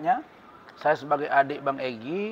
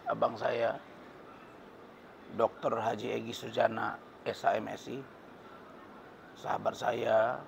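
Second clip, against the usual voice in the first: hoarse voice; 3 semitones lower, 6 dB quieter than usual. Real, not acted. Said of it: "suara saya agak serak nih".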